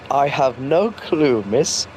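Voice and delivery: imitating a nervous, unbelievable denial; slow mock-innocent answer, badly faked; shaky, unconvincing. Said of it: "in the most shaky and unbelievable voice ever".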